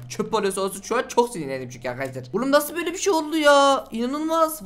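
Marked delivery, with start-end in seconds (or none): 2.3-4.7 high frustrated outcry. Real, not acted. Fuse failed.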